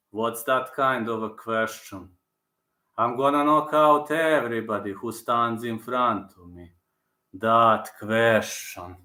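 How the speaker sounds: low, slow fighter's answer; lightly voiced impression, last words very drawn out; Prochazka impression. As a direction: drop the pitch and take it slowly. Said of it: "That's what Prochazka responded".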